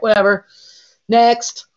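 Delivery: high, loud, curt whatever; dismissive brush-off. Retold or imitated. Cashier dismissing a rude customer at the register, bored brush-off. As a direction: wave the customer off, done with her. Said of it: "Just like".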